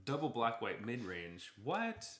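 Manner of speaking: hammed-up double take; mock surprise. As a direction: play astonished to set up the segue. Feigned surprise to set up segue.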